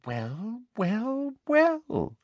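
drawn-out gloating, climbing in pitch; triumphant. A narrator's reading. Umbridge seeing a student break, triumphant. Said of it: "looking triumphant".

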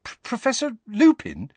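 high, stammered question in disbelief; disbelieving. A narrator's reading. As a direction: stammer the name as if you can't believe it. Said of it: "he said disbelievingly".

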